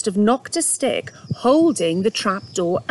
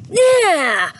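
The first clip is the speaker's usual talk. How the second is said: startled yelp; 10 semitones higher, 5 dB louder than usual. Acted. Dog splashed by sprinkler.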